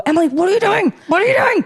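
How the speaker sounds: mock exasperated self-talk; self-scolding. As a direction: scold yourself in disbelief. Scolding herself.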